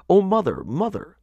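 high, urgent call for mother; great distress. A narrator's reading. Little fishes running to their mother, in great distress. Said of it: "swam to their mother in great distress".

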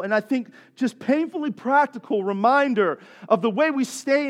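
driving, emphatic sermon delivery; forceful preaching. Real, not acted. Preacher telling friends how peace guards them, forceful preaching. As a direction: press each point home to the congregation.

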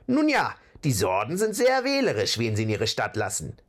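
hohe, zögerliche Trollstimme; zaghaft. Acted. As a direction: vorsichtig und unsicher antworten. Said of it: "entgegnete Bulgur zaghaft". (zaghafter Troll)

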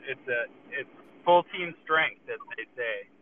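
muffled speakerphone sound; talking from inside a truck on speaker; underwater. Real, not acted. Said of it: "Jay, are you underwater?".

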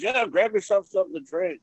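high imitated co-star voice; Paul Partain's voice. Co-star offering a drink from the cooler, high imitated voice. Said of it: "He goes".

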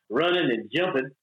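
casual Southern "running and jumping"; Southern accent. Shown as a demonstration. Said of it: "they got rid of my accent".

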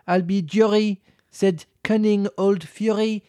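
slow storybook recital of a poem; measured sing-song poem read. A narrator's reading. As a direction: read it out slowly like a rhyme. Continues the tale poem.

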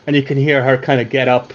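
ordinary delivery

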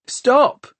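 high, urgent calling shout. A narrator's reading. Tom calls after Hester as she stomps away, shouting. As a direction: shout it after someone walking off. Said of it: "he shouted".

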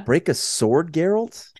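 high, rising disbelieving echo of the line; mock incredulous quote. Mocking the elf's odd pun to co-host, high incredulous echo. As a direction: repeat it as if it is absurd. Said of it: "Avallac'h throws in a pun?".

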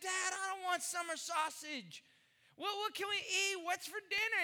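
put-on whiny kid. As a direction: whine like a hungry kid.

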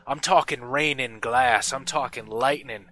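smith's ominous warning. Acted. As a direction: ominously warn the kid. GM voices Ardmore warning.

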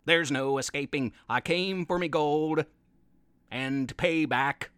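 low pirate Pete, hurt and accusing; a pirate scolding his own parrot. Acted.

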